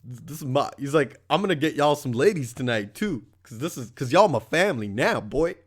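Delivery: put-on drunk bro voice. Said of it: "This guy's like".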